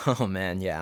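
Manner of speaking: usual speaking voice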